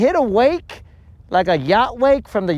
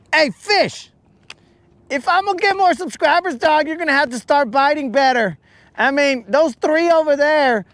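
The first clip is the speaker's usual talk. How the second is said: mock pep talk to fish; 4 semitones higher than usual. Addressing the fish.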